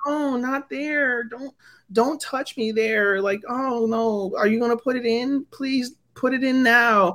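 high, slow, breathless-style imitation of moaning; hammed-up seductive pleading; mock sexual voice. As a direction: imitate a sultry plea, drawn out and high. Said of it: "in a really sexual voice".

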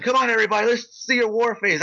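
a hint of a hype man; lightly voiced crowd rallier. Imitating man rallying the audience.

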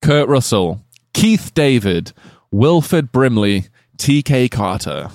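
slow, announcing game show host. Shown as a demonstration. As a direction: read the names like a quiz host. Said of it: "That was my game show host voice".

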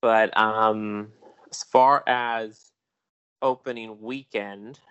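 slow, measured news reporter delivery. Acted. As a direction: read it like a TV box office report. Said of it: "Let me slip on my reporter voice".

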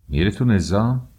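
میره تو نظام thrown back high and loud, rising on تو; mock the phrase میره تو نظام in disbelief; incredulous echo. A narrator's reading. Father echoes the uncle's میره تو نظام with loud scorn.

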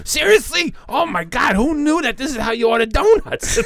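high, whiny mock astonishment; squealing like a dumbfounded customer; mock amazement. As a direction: ham up a clueless guy's wonder. Dumb guys amazed by donuts.

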